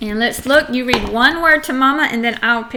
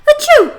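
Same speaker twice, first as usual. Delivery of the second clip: loud, high mock "achoo"; pretend sneeze; 7 dB louder than usual. Shown as a demonstration. Teacher acting out sneezing for the child, mock sneeze. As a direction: fake a sudden squeaky sneeze. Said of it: "I am sneezing".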